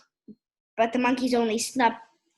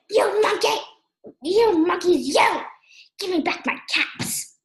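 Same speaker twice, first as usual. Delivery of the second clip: raised, high-pitched storybook anger; angry scolding; 6 semitones higher, 3 dB louder than usual. A narrator's reading. Angry peddler shakes both hands at monkeys, scolding loudly. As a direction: scold loudly, easing on the last demand. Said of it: "This made the peddler a-, angry".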